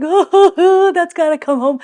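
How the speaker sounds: high, excited gush with a laugh; gushing squeal. Retold or imitated. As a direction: squeal over something irresistibly cute. Gushing over baby outfits in store.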